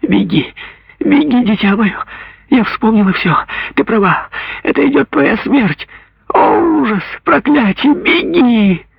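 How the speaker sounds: mother frantically cries to daughter to flee; desperate cry. Acted. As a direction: scream at her child to run. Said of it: "с отчаянным воплем".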